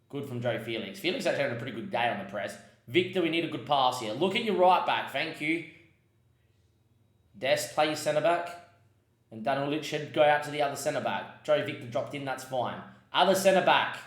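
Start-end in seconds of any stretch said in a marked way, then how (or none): 2.9-14.0 urging the players on, tense and anxious; fretting over each pass, pleading with them. Real, not acted. Manager anxiously urging his players through the press, tense. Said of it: "You can hear the angst in my voice".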